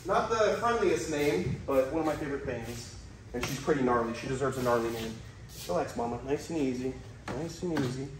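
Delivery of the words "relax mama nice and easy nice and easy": soothing. Real, not acted. Soothing a dangerous snake.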